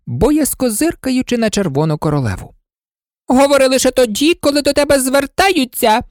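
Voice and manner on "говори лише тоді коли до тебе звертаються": the Red Queen snaps in, higher and louder; stern royal rebuke, high and loud; curt reprimand. Acted. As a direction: cut the girl off sharply. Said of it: "зненацька обірвала її королева".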